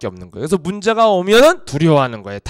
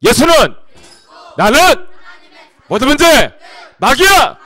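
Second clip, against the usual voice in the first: much higher, louder commanding shout; rebuking shout; 9 semitones higher, 10 dB louder than usual. Acted. Preacher showing how to rebuke the devil, shouting. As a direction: cast the devil out at full force.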